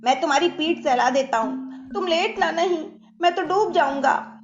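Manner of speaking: anxious, coaxing plea; pleading. A narrator's reading. Kant begs his friend not to lie down, pleading. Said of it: "अब कांत गिड़गिड़ाने लगा".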